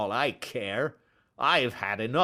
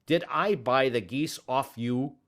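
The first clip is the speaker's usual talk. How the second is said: furious, much higher and louder; angry shouting; 6 semitones higher, 5 dB louder than usual. Acted. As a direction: bellow at the pestering little man. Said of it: "he shouted".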